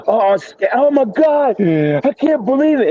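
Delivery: high, drawn-out panicked wail, mimicking his partner; imitating scared, breathless. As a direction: mimic how frantic he sounded, pitch way up. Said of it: "you had to hear the way this dude sounded".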